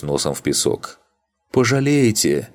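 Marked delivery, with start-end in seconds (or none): 1.5-2.5 high, loud cry cut short. A narrator's reading. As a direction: shout it, then get hit mid-word. Arling's threat cut off. (громкий высокий выкрик, оборванный)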